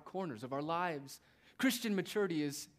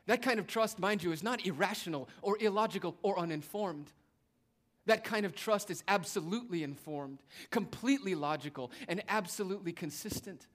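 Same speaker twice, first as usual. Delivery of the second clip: rising preacher's emphasis; 4 semitones higher, 5 dB louder than usual. Real, not acted. Preacher builds to climax.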